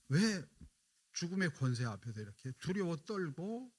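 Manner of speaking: a hint of Jesus' indignant lament at the mourners; Jesus grieved and angry. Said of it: "주님의 분노이시기도 하면서요".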